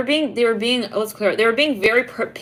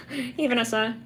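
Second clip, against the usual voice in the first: soft, shy voice of a sweet partner; a light mock of a shy partner saying hello; gentle greeting; 3 semitones higher, 5 dB quieter than usual.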